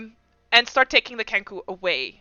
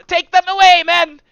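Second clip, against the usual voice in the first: barked order; 8 semitones higher, 10 dB louder than usual. Acted. Officer orders his men.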